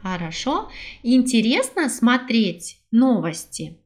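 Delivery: ordinary talk, nothing marked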